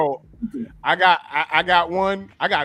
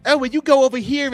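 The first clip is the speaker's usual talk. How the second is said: mimicked thug reply; 7 semitones higher, 6 dB louder, faster than usual. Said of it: "you go up to them and say".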